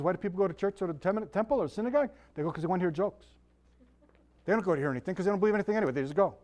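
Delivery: lightly imitated Jewish comedian patter; a hint of a stand-up comic's delivery; Jackie Mason. Preacher retelling why people go to synagogue, lightly imitated comic patter. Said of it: "he could talk like this".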